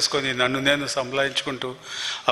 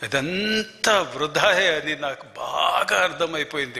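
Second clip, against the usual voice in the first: slow earnest preaching; slower than usual. Acted. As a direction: draw each phrase out slowly, weighty and earnest. Preaching the lesson slowly.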